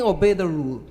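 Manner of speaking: loud, firm command; stern order. Real, not acted. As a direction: command obedience sharply. Speaker calls member to order.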